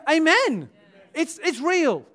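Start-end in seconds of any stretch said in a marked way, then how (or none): 0.1-0.7 loud, higher AMEN falling at the end; emphatic amen. Real, not acted. Preacher urges church to agree, emphatic AMEN. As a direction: drive AMEN home as a statement.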